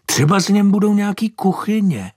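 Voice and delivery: put-on high, astonished old lady; old woman marvels at the horse, high and amazed; old woman's voice. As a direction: pitch up into a fussy old woman's voice. Mrs Herncová voiced by reader.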